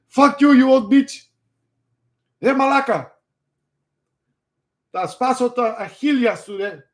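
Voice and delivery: high-pitched mock rant; loud, strained mock fury; hammed-up angry yelling. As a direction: yell abuse in a comic high voice. Acts John yelling at old lady.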